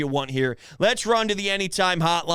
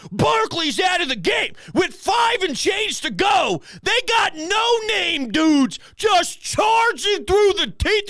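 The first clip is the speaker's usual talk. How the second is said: furious rant; 9 semitones higher than usual. Real, not acted. Host ranting at his team's defense on air, high furious shouting. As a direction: yell it like you can't believe your eyes.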